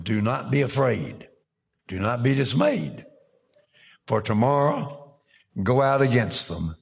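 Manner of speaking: firm, projected pulpit proclamation; Scripture reading. Acted. Prophet gives God's word to Judah, proclaimed Scripture reading. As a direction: proclaim it phrase by phrase, with deliberate pauses. Reads the prophet's message aloud.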